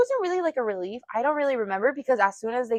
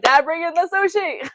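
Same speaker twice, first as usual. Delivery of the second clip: higher, louder call across the room; retold shout to dad, lightly raised; mock calling out; 7 semitones higher, 6 dB louder than usual. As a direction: call out for the food, playful.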